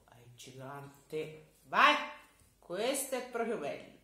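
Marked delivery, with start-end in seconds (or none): 1.6-4.0 put-on high, loud child's voice; a small boy reminding the giant of his promise; cheeky child handing over a fig; little boy voice.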